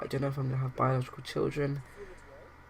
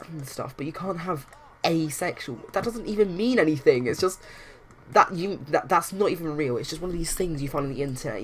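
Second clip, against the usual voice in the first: acted anger; 2 semitones higher than usual. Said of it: "getting really angry and really riled up".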